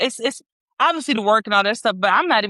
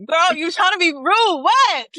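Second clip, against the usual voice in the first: mock sassy; 8 semitones higher, 4 dB louder than usual. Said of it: "Like, like".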